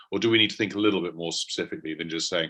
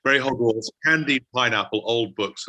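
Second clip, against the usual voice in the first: higher, louder, playful quote; read-out tasting note; 4 semitones higher, 4 dB louder than usual. Retold or imitated. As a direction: read the humorous note out with relish. Reading out listener's humorous tasting note.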